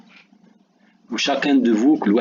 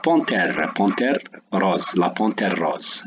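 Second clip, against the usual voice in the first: slow word dictation; slower than usual. Shown as a demonstration. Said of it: "c'est un accent grave".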